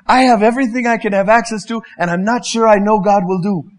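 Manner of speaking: my own doubting thoughts, muted; doubting self. Retold or imitated. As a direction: say it like a rich man unsure of God. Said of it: "And I think".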